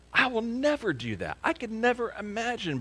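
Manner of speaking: mock confidence. Mocking the confident vow.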